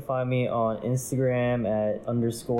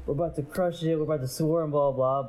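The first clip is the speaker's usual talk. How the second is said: voice cracking; 5 semitones higher than usual. Retold or imitated. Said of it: "my voice was cracking".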